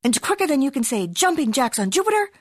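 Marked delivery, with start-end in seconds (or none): 1.1-2.3 high, excited cry; high excited exclamation. Acted. Exclamation in story.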